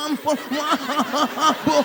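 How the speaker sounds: put-on slow, whimpering kid begging for mercy; mock sobbing plea. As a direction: drag out a crying apology to the teacher. Kid begging teacher after accident. (anak kecil memohon sambil pura-pura nangis)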